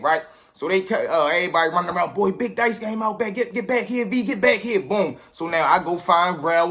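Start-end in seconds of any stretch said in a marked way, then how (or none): 2.1-4.8 a higher, lively shout across the schoolyard; hollering a friend back to the game; excited calling out. Retold or imitated. Boy calls V back to the dice game, calling out.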